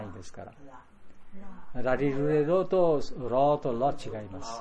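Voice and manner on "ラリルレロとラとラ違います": slowly contrasting ラ and ラ; slow teaching pace. Shown as a demonstration. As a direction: spell out ラリルレロとラとラ slowly.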